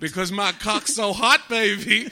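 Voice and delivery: slow sleazy lover voice; sleazy seducer. Pretend. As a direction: lay it on thick, slow and smooth. Sleazy answer to the question.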